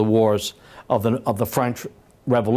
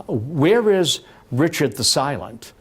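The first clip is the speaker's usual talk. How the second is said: slow, drawn-out mocking call; mocking taunt; 3 semitones higher, slower than usual. Candidate goads his silent rival at a press conference, mocking. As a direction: needle an absent opponent, lightly theatrical. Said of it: "in a mocking way".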